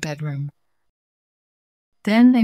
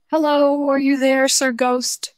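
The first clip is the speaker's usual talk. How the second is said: calling out; 8 semitones higher, 4 dB louder than usual. Acted. Calling out into dark stairwell.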